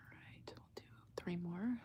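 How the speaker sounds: barely voiced aside to herself; quick whispered note to herself. Real, not acted. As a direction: drop to a breathy murmur off-mic.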